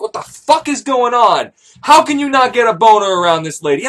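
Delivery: high, indignant crowd voice; mock outrage. Onlookers scolding the failed lover, high and outraged. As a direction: demand an answer in high disbelief.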